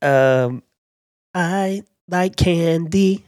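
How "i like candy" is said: slow, higher attempt at a girl star's line; drawn-out, lightly girlish catchphrase; young pop star impression. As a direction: stretch it out in a higher put-on voice. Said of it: "I just can't get that voice".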